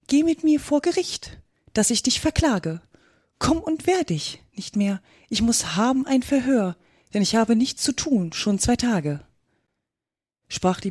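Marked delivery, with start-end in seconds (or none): 0.1-9.2 rhythmic verse in a slightly raised voice; a hint of a bossy hound, in measured rhyme; lightly voiced demanding dog. Dog summons the mouse to court, mildly demanding.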